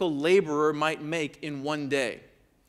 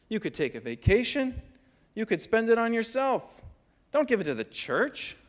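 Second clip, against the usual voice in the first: lightly voiced accountant, higher and puzzled; questioning accountant; 5 semitones higher than usual. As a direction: ask it like a baffled accountant, pitched up. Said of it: "He says".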